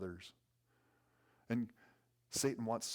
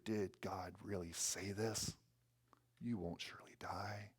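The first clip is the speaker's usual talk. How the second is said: insinuating whisper; 4 dB quieter than usual. Acted. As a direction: imitate Satan slipping doubt into an ear, softening at the end. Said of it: "Satan wants to whisper in our ear".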